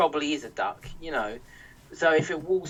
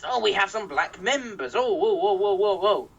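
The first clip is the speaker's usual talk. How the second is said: put-on innocent voice, higher; mock Britain First; 4 semitones higher than usual. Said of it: "They claim they're not racist".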